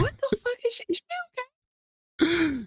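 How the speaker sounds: high, slow incredulous question; mock alarm. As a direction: stretch it out in shocked disbelief. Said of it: "I'm like".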